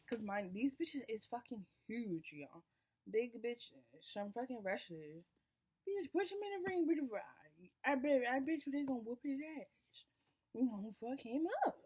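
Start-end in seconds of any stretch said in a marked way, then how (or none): 5.9-11.8 hype yell. Retold or imitated. Girls hyping the fight, loud.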